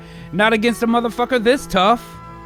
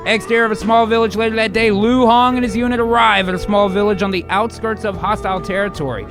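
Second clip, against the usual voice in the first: grand read of stage directions; big, punchy screenplay narrator; dramatic script narration. Acted. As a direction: announce the scene with gusto.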